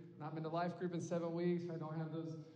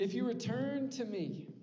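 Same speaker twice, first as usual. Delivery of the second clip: voice of God; 5 dB louder than usual. Retold or imitated. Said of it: "you just picture him saying it".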